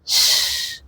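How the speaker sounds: soft airy "ش", no voice; German ich sound. Shown as a demonstration. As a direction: hiss "ش" with tongue near the palate. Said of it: "يبقى هنطقها ش".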